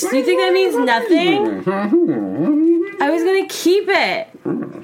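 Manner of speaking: put-on scolding a boyfriend on the phone; angry phone call.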